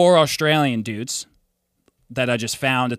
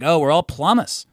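put-on Australian accent; 3 semitones higher than usual. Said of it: "your Australian accent got really good".

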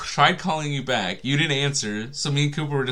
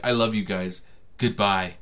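mock drunk farewell; 5 semitones lower than usual. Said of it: "You don't end your calls with goodbye".

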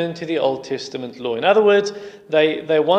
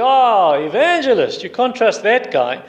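higher, exclaimed scoff at a name; lightly acted disdain, opening on a loud "Ah"; mock dismissal; 4 semitones higher, 4 dB louder than usual. Acted scornful reply in retold story.

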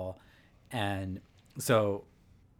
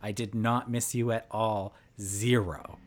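flat firm refusal. Retold or imitated. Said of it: "so Joy said".

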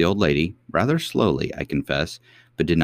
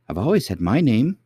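cartoon princess; 6 semitones higher, 3 dB louder than usual. A narrator's reading. Princess protests.

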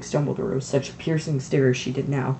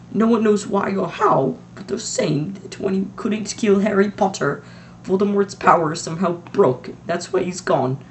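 trembling voice; 6 semitones higher, 3 dB louder than usual. A narrator's reading. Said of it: "McGonagall's voice trembled".

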